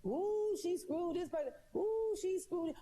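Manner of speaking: a hint of mocking gossip; gossip mockery. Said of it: "somebody gonna go back and say".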